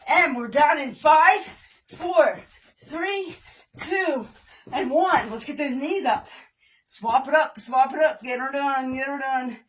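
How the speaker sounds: loud upbeat count-down; aerobics instructor. Real, not acted. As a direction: pump up the class with energy.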